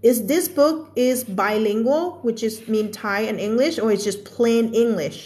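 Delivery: very slow, careful read; slow example sentence. Shown as a demonstration. Teacher reads an example question to the class, very slowly. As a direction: read each word slowly for learners.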